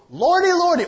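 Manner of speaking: high, loud hammed-up church-lady cry; mock lordy lordy. Preacher parodying a flippant exclamation, high and loud. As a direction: wail it like a flustered old auntie. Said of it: "maybe that's what he said".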